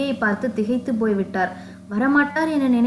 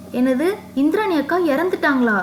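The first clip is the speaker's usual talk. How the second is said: higher, stunned cry of disbelief; shocked disbelief; 5 semitones higher than usual. Acted. Vasanthi hears her old friend has died, shocked disbelief. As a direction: hit by the news of a sister's death. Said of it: "அதிர்ச்சியில்".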